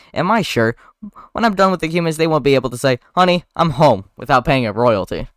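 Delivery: loud and pleased with himself; excited boast. Acted. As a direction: boast it loudly. Barry boasting about the lawsuit.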